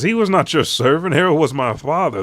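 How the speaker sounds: high, loud, forceful correction; imitated angry son defending his father; acted indignant outburst. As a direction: throw the claim back at him, outraged. Loki angrily corrects his father's killer.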